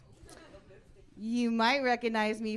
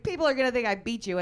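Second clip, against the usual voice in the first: fast, higher, louder complaint; indignant husband; 5 semitones higher, 6 dB louder, faster than usual. Retold or imitated. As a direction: blurt it out in protest.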